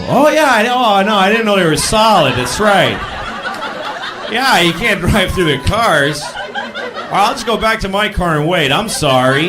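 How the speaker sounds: hammed-up remorseful driver; mock apologetic driver. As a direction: sound suddenly reasonable and sorry. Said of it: "he's gonna go".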